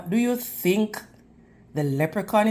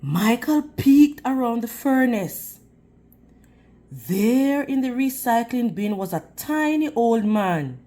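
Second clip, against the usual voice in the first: lively, expressive read-aloud voice; animated picture-book narration; story reading to children. A narrator's reading. Reads a picture book to the class.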